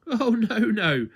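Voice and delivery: high, loud laughing voice; giggly high-voiced twin. A narrator's reading. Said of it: "laughed Little Miss Twin".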